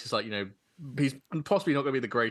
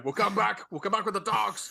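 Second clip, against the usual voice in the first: through a megaphone; 8 semitones higher than usual. Retold or imitated. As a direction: call it out, half laughing. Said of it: "and he's going".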